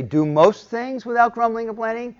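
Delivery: high, mocking misquote with most; mock wrong version. Shown as a demonstration. Preacher mocking the softened misquote, high and sarcastic. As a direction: sneer the word most up high. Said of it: "Does it say".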